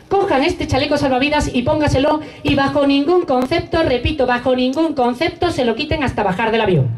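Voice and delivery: airport announcement. Retold or imitated. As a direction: announce it over the cabin speaker. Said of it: "empieza a hablar por megafonía y dice". (anuncio formal de azafata)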